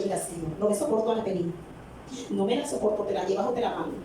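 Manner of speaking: brisk, low, offhand grumble to God; blunt mock complaint. Preacher mocking a rude prayer to God, brisk and dismissive. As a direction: rattle it off like an impatient complaint. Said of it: "hubiera dicho".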